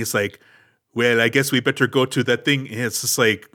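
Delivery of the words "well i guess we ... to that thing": stilted, awkward line reading; clunky delivery. Retold or imitated. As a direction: deliver it woodenly, with no swagger. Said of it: "it's very clunky, uh, just like my delivery is right now".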